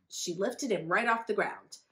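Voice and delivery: usual speaking voice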